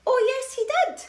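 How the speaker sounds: high, loud shouted retort; panto shout. Acted. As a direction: yell it back like a panto crowd. Pantomime call and response.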